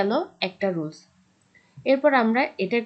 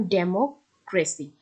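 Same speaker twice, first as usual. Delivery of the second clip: ডেমোক্রেসি slowly, weight on "MO"; ডেমোক্রেসি taken slowly, "demo" set apart; stress third from end; 3 semitones lower, much slower than usual. Shown as a demonstration. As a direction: split ডেমোক্রেসি after a stressed MO. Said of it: "এমও এর উপর কি হবে".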